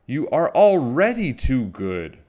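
loud, high-pitched scolding; screaming. A narrator's reading. Mother Witch scolds Little Witch for being too good, screaming. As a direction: raise pitch and volume in outrage. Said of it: "screamed Mother Witch".

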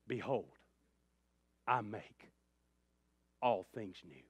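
lightly voiced divine promise, phrase by solemn phrase; God speaking. Preacher speaking as God to the grieving, measured promise. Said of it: "He'd probably say something like this".

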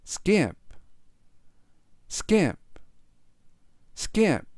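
measured word-by-word reading for repetition; slow model reading. Shown as a demonstration. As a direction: give each repeat room for learners to follow. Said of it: "천천히 세 번씩 읽어드리고요". (따라 하도록 천천히 읽기)

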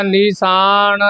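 ਨੀਸਾਨ said with a light plain s; ਨੀਸਾਨ, not nishan, soft and plain; ਨੀਸਾਨ ਪੋਲੇ ਸ ਨਾਲ. Shown as a demonstration. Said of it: "ਨੀਸਾਨ ਕਹਿਣਾ".

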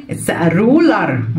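put-on drawn-out answer for kids to copy; slow model answer. Shown as a demonstration. Teacher modelling answer, very slow. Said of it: "it's a إيه".

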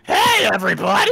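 NL impression. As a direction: belt out an imitated streamer greeting. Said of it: "have you heard B-Rex's impression of you".

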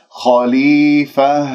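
خليفة slow, stopping on a voiced ha; pausal ending. Shown as a demonstration. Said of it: "التاء المربوطة راح أقف بها".

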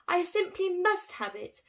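a hint of a greedy squirrel's yearning; wistful cry. Squirrel Bruce longing for the pine cone, lightly wistful. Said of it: "he wistfully cried".

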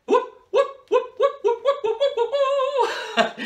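high, loud excited whooping; excited whoops. Acted. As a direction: whoop it up to get the kids going. Excited warm-up cheer.

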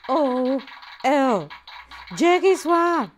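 loud comic reading. Acted. Host reads a cheeky viewer comment to Jackie aloud, hammed-up.

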